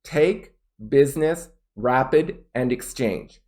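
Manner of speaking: "take", "business", "rapid", "exchange" each set apart; stressed content words. Shown as a demonstration. Teacher listing words to stress, separated emphasis. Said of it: "I'm gonna stress".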